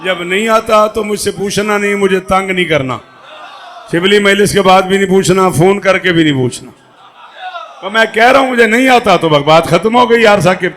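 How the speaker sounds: mock-stern warning. Real, not acted.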